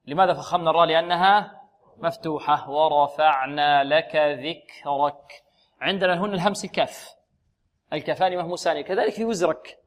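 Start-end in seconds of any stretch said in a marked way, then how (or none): 2.7-5.4 slow recitation. Shown as a demonstration. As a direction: recite slowly, breathe the kaf. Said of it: "models verse". (ترتيل بطيء مع همس الكاف)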